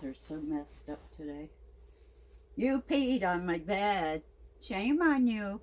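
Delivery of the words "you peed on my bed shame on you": slow, louder scolding, pitch rising on the shame; a firm mock-stern telling-off. Real, not acted. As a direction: scold the puppy slowly and deliberately. Scolding the dog for peeing.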